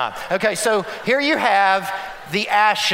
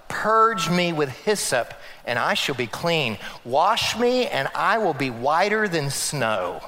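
scripture reading; 3 semitones lower than usual. Acted. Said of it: "He says what?".

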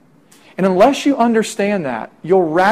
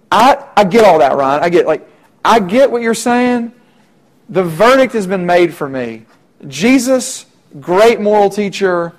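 skeptic pushback; 2 semitones higher, 5 dB louder than usual. Pretend. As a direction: brush off the preacher's claim. Skeptic voiced rejecting Jesus.

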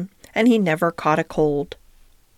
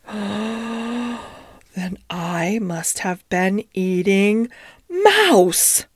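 very slow, stunned realisation; dawning horror; much slower than usual. Acted. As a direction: let the words crawl out in disbelief. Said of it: "Duchess drew a long breath".

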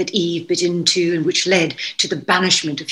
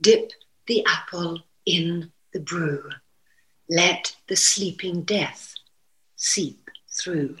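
slowing into a hushed, whispered spell; witch incantation; 3 dB quieter, slower than usual. Retold or imitated. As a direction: recite it like a witch's curse, fading to a whisper. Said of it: "The lines he loved were".

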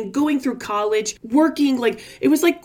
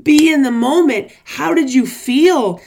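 louder, building coach intensity; coach urging; 4 dB louder than usual. Retold or imitated. Tony urging me to relive it, a building coaching push. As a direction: push me to feel it like Tony did. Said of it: "he's like".

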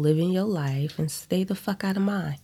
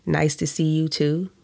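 snide. Acted. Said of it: "a tone that I don't like".

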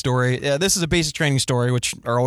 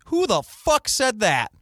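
drill sergeant bark; 7 semitones higher, slower than usual. Retold or imitated. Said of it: "the drill sergeant responds".

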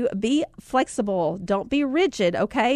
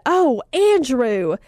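slow tender call; 2 semitones higher, 4 dB louder, much slower than usual. Retold or imitated. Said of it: "kinda shrieked back like he was ready".

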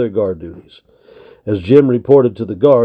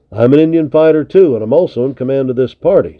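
a mild snap, quick and a touch raised; snapping; 4 semitones higher, 4 dB louder, faster than usual. Acted. Major Henry putting Wolf in his place, mild snap. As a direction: cut him off with brisk authority. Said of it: "snapped Henry".

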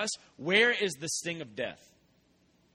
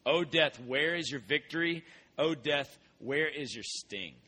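solemn scripture reading. Acted.

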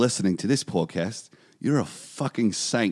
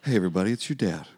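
dad podcast voice; faster than usual. Retold or imitated. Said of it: "it's almost like Will Forte".

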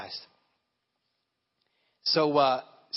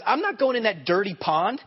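indignant retold refusal, pitched higher; mildly frustrated; 4 semitones higher than usual. Naaman balking at the prophet's order to dip in the Jordan, mildly frustrated. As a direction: act out an affronted refusal. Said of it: "he begins to leave frustrated".

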